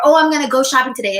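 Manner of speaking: quick, lightly eager little quote; mock excited. To viewers, acting out a giddy inner urge, fast and mildly excited. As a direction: rattle it off like a happy plan. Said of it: "and it makes me so excited".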